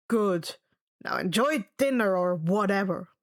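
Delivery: lightly voiced bored god giving a dry warning; stern camp director. A narrator's reading. Mister D warning Annabelle off eavesdropping, lightly stern.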